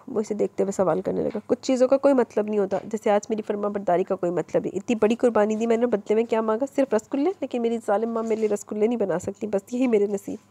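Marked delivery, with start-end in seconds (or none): 1.5-10.4 mildly hammed-up self-pity; milk the tragedy a little; a touch of melodrama over sweets; overacting. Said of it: "वो over acting करती".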